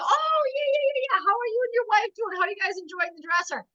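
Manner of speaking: high, rushed gush of recognition; suddenly remember them and gush, quickly; acted sudden recognition. Acting out sudden recognition on call.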